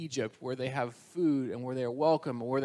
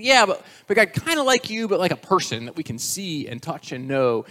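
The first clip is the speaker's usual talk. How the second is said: pushy pleading; 4 semitones higher, 6 dB louder than usual. Acted. People pressing God again.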